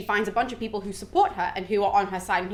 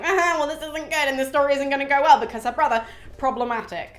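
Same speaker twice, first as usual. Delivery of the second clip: imitating Venus; 4 semitones higher than usual. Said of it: "She's just like".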